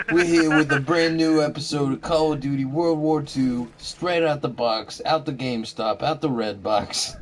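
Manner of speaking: high, loud, laughing Jewish woman voice. Retold or imitated. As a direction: gush about the new game as an old lady. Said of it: "in the Jewish woman voice".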